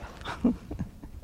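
brief, breathy little laugh; soft chuckle. Real, not acted. Teacher to meditation class after a light remark, soft chuckle. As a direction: chuckle softly under the breath.

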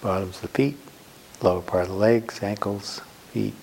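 unhurried meditation guidance with long pauses; guided meditation. Real, not acted. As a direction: guide them gently into the body, phrase by phrase. Leads a sitting meditation.

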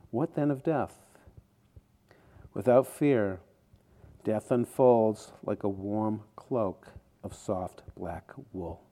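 measured poem recitation with pauses between phrases; poem reading. A narrator's reading. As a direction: read a late friend's poem, letting each line land. Reads friend's poem aloud.

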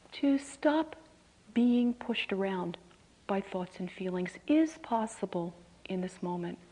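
measured questions with long pauses; guided contemplation. Real, not acted. Teacher asking listeners to stop in this moment, guided contemplation. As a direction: pose each question, then leave silence to reflect.

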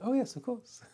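high mock-cheery "Oh yes, of course"; sarcastic. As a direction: sing it up high, ironic agreement. Mocking a cheery agreement.

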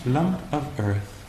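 slow, amused repeat through a laugh. Real, not acted. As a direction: let the laugh carry it, slowly. Laughs repeating the retreat phrase.

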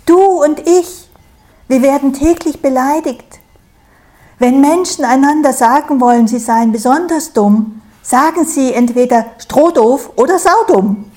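high, loud and indignant straw voice; crowing straw. A narrator's reading. Stroh telling Sau they are both insulted, high crowing. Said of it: "kräht Stroh".

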